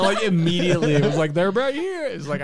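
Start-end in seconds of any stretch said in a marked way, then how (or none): 1.3-2.1 high-pitched tattling cry; light holler with no extra volume; mock call-out. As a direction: imitate the skull giving them away. Imitating the skull alerting the guards.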